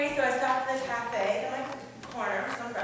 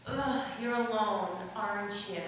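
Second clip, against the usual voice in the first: sneering mock; 4 dB quieter than usual. Imitating the waiter's real meaning with a sneer. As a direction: drag it out with contempt. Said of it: "what he meant to say was".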